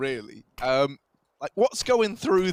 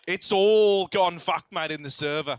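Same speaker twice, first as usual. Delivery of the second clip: jokey Aussie "mate" at every turn; light mock Australian; Australian accent. Laughing through Aussie banter about the server. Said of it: "grasp of the Australian accent".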